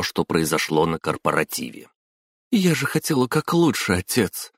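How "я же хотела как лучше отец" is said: высокий голос, готовый сорваться в плач; жалобно, со всхлипом, оправдываясь; всхлипывая. A narrator's reading. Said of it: "вновь всхлипнула Хатару". (снова всхлипывая, высоко)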